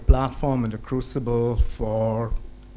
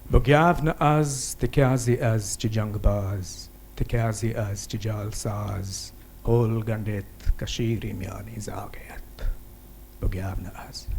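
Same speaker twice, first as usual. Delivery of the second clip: poem recitation. Acted. Poet reciting a Kashmiri anthem to a festival audience, solemn recitation.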